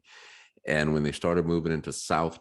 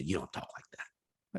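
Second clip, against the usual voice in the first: mock scolding friends; 10 dB quieter than usual. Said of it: "would get mad at me and say".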